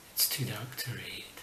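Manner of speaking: hushed whispered punchline. Acted. Whispering the dog joke's punchline to viewers. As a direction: whisper it like a secret.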